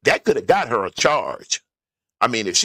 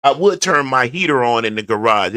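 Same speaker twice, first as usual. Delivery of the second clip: ordinary talk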